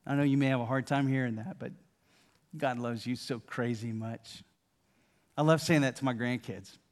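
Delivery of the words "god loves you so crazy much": hushed, slower; soft whisper. Pretend. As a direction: say it softly again, close to the ear. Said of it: "whisper in your ear".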